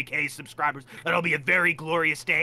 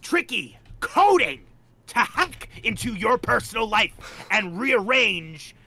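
mock ominous warning; 4 semitones higher, 3 dB louder, slower than usual. Joking threat about Co-Primate's powers.

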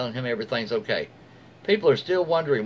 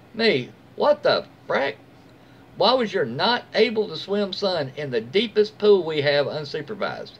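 mock-indignant yell at the mother; angry teen outburst; 4 semitones higher than usual. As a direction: act out the angry teenager slowly. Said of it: "totally angry teenager".

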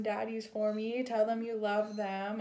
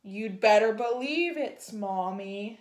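loud, emphatic scolding; booming mother; 6 dB louder, slower than usual. Acted. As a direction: boom it out as a stern mother bird. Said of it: "she boomed".

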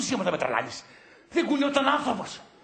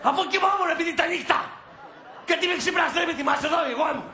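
raised, indignant arguing; angry protest; 4 semitones higher, much faster than usual. Acted. Partner woken in the night, protesting angrily. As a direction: hammer home the grievance. Acted quarrel over being woken.

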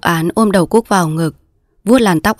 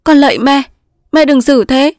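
high, loud anguished plea; begging; 8 semitones higher, 5 dB louder than usual. Acted. Daughter begging her mother, anguished. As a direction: beg desperately.

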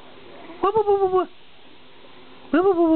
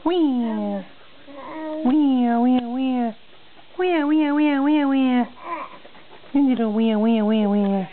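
high, singsong repeated wee; 6 semitones higher, slower than usual. Real, not acted. Cooing baby sounds.

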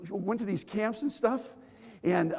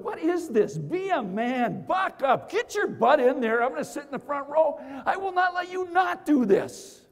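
tough-love yell; 7 semitones higher than usual. Retold or imitated. Friend pushes him, pep talk.

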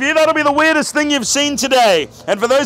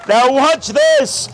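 theatrical magician; much slower than usual. Acted. Magician's showman cue.

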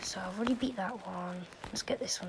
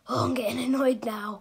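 annoyed whisper; 5 dB louder than usual. Real, not acted. Frustrated, about to quit.

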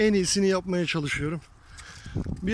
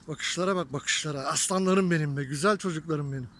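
tender; 4 semitones lower than usual. Real, not acted. Fondly praising his sheep.

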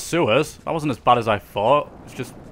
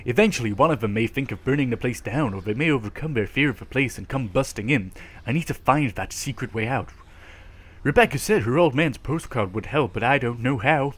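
reading a note. Acted. Reads in-game note aloud.

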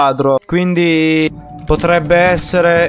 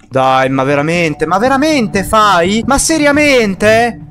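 building higher in disbelief; incredulous complaint; 3 semitones higher than usual. Real, not acted.

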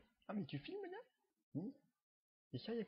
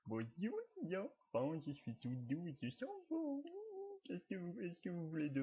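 a lightly cute plush voice, going high at the end; trop mignon; 4 semitones higher than usual. Pretend. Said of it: "je vais faire, euh, le trop mignon". (voix trop mignonne à peine jouée, qui monte dans l'aigu à la fin)

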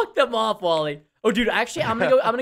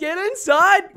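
louder repeated command; 7 semitones higher, 4 dB louder, slower than usual. Real, not acted. Herding sheep, repeats louder.

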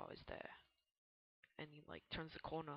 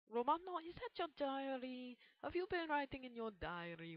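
put-on voice; 9 semitones higher than usual. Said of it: "Please stop talking in that voice".

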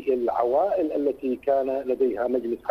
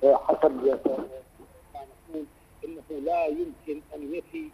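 choppy broken phone line; corrupted glitchy audio. Real, not acted. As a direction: voice cutting in and out. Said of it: "عذرًا الصوت متقطع".

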